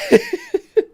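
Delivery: high squealing laugh burst; shrieking laugh. Real, not acted. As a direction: let out a shrill cackle. Laughing at huge fortune.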